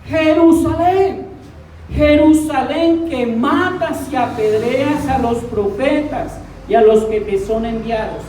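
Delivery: a preacher lending Christ a grieving, pleading voice; a touch of weeping in the lament; mock tearful lament. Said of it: "con llanto desgarrador".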